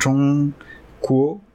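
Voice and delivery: Chongguo drawn out slowly, high level first syllable; tone demonstration. Shown as a demonstration. Teacher demonstrates Chongguo slowly, first tone then rising. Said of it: "premier ton".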